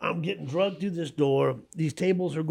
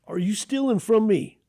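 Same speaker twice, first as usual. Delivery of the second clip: accusing shopkeeper; 9 semitones higher, 6 dB louder than usual. Retold or imitated. Shopkeeper confronts thief.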